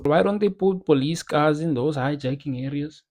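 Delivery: a failed attempt at a white South African accent, ends in a rise; bad white South African accent. Shown as a demonstration. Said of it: "That is a shit white Danny accent".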